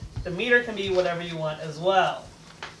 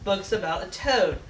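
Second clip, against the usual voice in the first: steady, measured villanelle recital; poem reading. Acted. Girl reading her birthday villanelle for Mom, steady recital. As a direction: read it as a gentle tribute.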